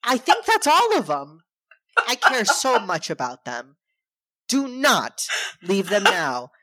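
mock pleading dad. Dad's pleading speech, mocked.

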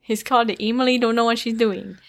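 put-on garbled foreign accent, broken English; name the accent in that silly accent; badly faked accent. Host mocking herself to co-host, muddled foreign accent. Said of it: "what accent I'm trying to do".

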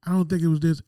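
put-on defensive boyfriend snapping back. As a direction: push back hard. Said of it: "I was like".

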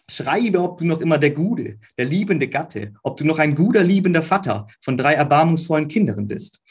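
put-on reading old German letter lines with a Thuringian dialect ring. Shown as a demonstration. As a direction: let the Thuringian German of the letter be heard, spoken as the writer would have said it. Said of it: "An example taken from the original would sound like this, for this dialect".

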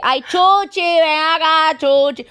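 high, loud sing-song calling of the dog; imitating a Cuban owner calling her poodle; Cuban lady calling. Cuban owner calls her poodle Chuchi, high sing-song call. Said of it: "I'll go say".

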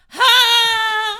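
sudden loud high shout; startling boo. Real, not acted. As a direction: jump out and shout to scare. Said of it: "Jesus, that one was loud".

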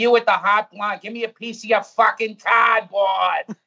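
put-on slow Boston drunk calling out, "Hey, where'd you get the fucking cardboard?"; a Fenway drunk in a thick Boston accent, drawn out. Fenway drunk demands cardboard in the rain, slow Boston accent. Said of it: "do the accent as well as you can".

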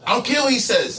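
high mock voice of friend; mocking imitation. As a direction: whine it out like him. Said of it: "This is how he talks to me".

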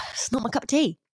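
breathy whispered aside. Real, not acted. Sighing aside.

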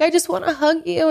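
high sugary fake comfort; mock sympathy. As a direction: coo it like a fake friend. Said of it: "She's like".

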